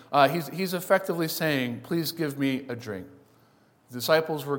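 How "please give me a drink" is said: gentle, soft please, not a command; polite request. Shown as a demonstration. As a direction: ask kindly, softer and lower. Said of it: "doesn't come across quite as politely as it actually is".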